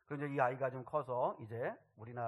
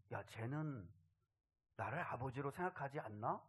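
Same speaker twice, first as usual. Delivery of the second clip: much softer, subdued wondering; imagined hurt father; 9 dB quieter than usual. Acted. God wonders whether His child sees Him as father, quietly hurt. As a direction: voice a quietly let-down parent. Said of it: "하나님 아버지께서도 섭섭하시겠냐는".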